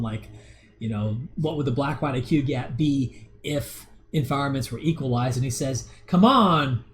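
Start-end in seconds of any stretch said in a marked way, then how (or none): 6.1-6.8 stupid delivery. Retold or imitated. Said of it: "he says it in, like, a stupid way".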